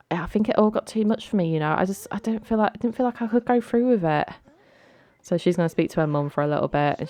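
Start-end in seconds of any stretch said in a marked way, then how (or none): 0.1-4.3 lightly voiced daughter explaining herself to mum; higher-pitched mock confession to mum; confiding daughter. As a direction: explain it haltingly, in a raised voice. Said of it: "she's gonna be like".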